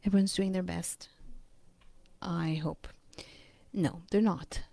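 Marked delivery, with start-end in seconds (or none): 2.2-2.9 whispered aside. Real, not acted.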